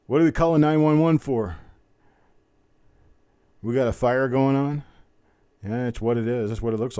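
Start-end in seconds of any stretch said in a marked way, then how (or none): 0.1-4.8 loud, high mock emergency call; mock alarm. Auctioneer to viewers about the fiery coin, mock alarm. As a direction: play up the fire like a real alarm.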